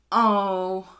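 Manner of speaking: breaking into giggles mid-line; can't stop laughing while reading. Real, not acted. Giggling through a quote.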